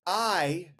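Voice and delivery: high, slow dramatic proclamation; grand announcement. Pretend. To his co-hosts, a high, slow grandiose announcement. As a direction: announce it like a cruise ship herald.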